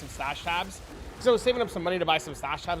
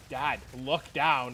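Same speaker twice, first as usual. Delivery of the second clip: son's voice; 4 semitones lower, much slower than usual. Retold or imitated. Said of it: "he's like".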